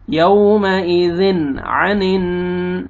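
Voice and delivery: "यौमइज़िन अनिन" chanted, first N clear with no hum; izhar. Shown as a demonstration. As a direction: move straight from "यौमइज़िन" into "अनिन". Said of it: "जल्दी पढ़ना है".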